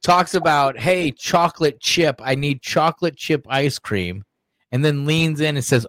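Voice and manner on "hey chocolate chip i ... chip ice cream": lightly mimicked Biden, drawn out; a hint of slow Biden impression; mock Biden. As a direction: slowly imitate Biden wanting ice cream. Mimics Biden's ice cream remarks.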